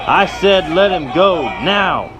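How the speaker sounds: high, loud insistent command; repeated order. Acted. Johnny warning the knife man a second time, loud insistent shout. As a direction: bark it, last warning.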